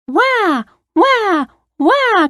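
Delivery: put-on high-pitched little girl wail; mock crying. A narrator's reading. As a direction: imitate a child's wah-wah cry. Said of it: "cried the little girl".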